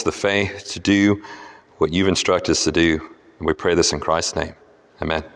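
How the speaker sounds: measured, earnest prayer; public prayer. Real, not acted. Preacher leading the congregation in prayer before the study, measured prayer. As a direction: pray on behalf of the room, easing down to a low amen.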